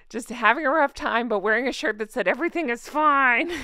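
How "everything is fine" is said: forced cheer through gritted teeth. Shown as a demonstration. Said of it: "through gritted teeth".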